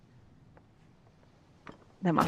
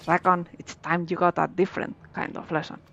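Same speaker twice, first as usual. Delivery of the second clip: lightly voiced pirate accent, gruff; mild pirate accent taunting; 2 semitones lower than usual. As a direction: read it like a sea pirate, a hint only. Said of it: "Love that pirate accent".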